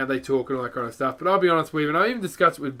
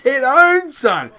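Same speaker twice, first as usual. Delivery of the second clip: laughing, much higher and louder taunt; gloating shout; 9 semitones higher, 10 dB louder, much slower than usual. Real, not acted. Gamer taunting the player he just killed, a laughing triumphant shout. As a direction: crow over the kill with a laugh.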